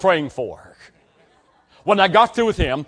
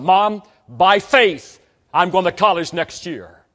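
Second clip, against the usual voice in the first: slow, louder declaration of faith; determined vow; 3 dB louder, slower than usual. Retold or imitated. Teen son telling his mom he will go to college, determined. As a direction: plant each word like a promise.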